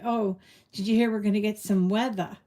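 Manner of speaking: light New England accent, R dropped on weather. Shown as a demonstration. New Englanders chatting about a storm coming, light New England accent. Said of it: "when we're talking to other people in New England, we say".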